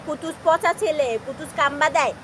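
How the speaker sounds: lightly voiced, slowed mock reproach; mock scolding of others. Mother imitates strangers mildly scolding her pet. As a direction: echo what people would say, half-teasing. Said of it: "মানুষ বলবে".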